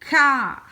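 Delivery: CAR loud, with a firm K and long vowel; sounded-out syllable. Shown as a demonstration. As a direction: hit and stretch CAR for the learner. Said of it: "tu entends le k".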